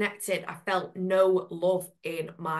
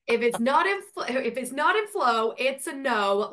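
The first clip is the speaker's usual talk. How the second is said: put-on a light American accent, a touch higher and louder; 4 semitones higher, 3 dB louder than usual. Echoing her co-host's slogan as a catchy tagline, in an American accent. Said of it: "the American accent".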